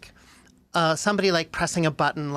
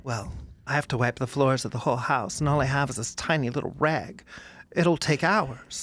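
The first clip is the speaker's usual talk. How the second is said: downcast, lightly Australian princess; 4 semitones lower, 3 dB quieter than usual. Acted. Princess facing floors with a tiny rag, woeful Australian accent. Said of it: "she was an Australian princess".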